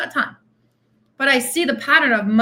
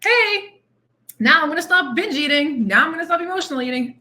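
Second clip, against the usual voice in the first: mock sudden resolve; 4 semitones higher than usual. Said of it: "switch to".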